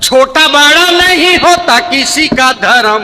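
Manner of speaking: high declaimed verse, slow in places; poem recital. Acted. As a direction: proclaim it like a stage poet.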